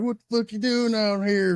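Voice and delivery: lightly cartoonish imitation of a ranger; mock the ranger like a cartoon character; Looney Tunes voice. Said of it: "Fucking sounded like ... Looney Tunes".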